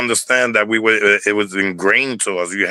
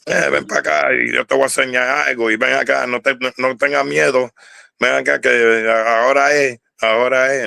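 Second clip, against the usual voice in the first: higher-pitched imitation of an old Boricua man; old timer's voice; 4 semitones higher than usual. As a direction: mimic an old-timer coaxing a kid in Spanish. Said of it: "He would talk like an older man".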